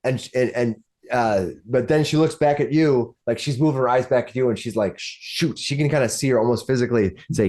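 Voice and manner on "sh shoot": whispered, stammered curse; soft whisper of someone trapped; hushed dismay. Acted. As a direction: mutter it under the breath. Woman's dismay acted by game master.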